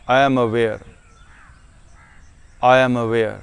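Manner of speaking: very slow, measured meditation voice; unhurried self-affirmation, letting each phrase sink in. Shown as a demonstration. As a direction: settle slowly into each affirmation, with long pauses.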